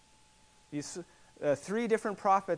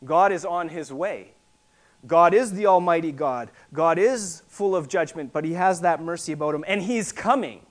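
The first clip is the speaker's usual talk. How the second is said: loud pulpit declaration; forceful preaching; 7 dB louder than usual. Real, not acted. Preacher declaring God on his way, forcefully. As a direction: proclaim it with conviction, punching the key words.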